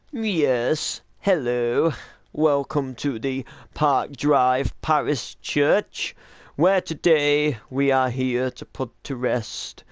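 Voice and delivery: lightly posh, slow vicar welcome; a hint of a posh English vicar. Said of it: "this guy's got a little bit of a posh voice".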